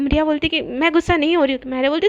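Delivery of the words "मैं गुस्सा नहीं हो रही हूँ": restrained, huffy denial; understated acted annoyance; mild angry denial. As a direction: deny it with a touch of temper. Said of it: "इतना गुस्सा क्यों हो रही हो".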